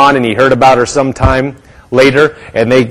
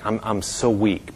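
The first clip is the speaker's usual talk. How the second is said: very soft, low-voiced weakness; weak whisper; 4 semitones lower, 13 dB quieter than usual. Sick woman telling her visitor she is weak, soft near-whisper. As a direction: imitate a frail patient, barely voiced. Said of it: "she was just whispering".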